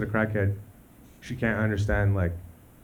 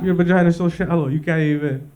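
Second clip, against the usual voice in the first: higher, louder jeering; mock taunt; 5 semitones higher, 3 dB louder than usual. Jeering taunt continued, louder and higher. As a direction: push it out like a playground insult.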